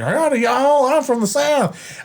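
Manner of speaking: high, slow Southern drawl; hammed-up, singsong Southern howdy; Southern accent. Shown as a demonstration. Showing how easy it is, Southern accent. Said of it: "specifically a Southern accent".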